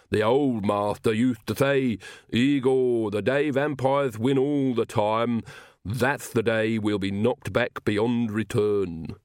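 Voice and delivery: slow lisping retainer quoting his master; lisping servant Igor, reminiscing. Acted. Igor quotes his old master, slow nostalgic lisp. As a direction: lisp slowly, drawing out the quoted sayings.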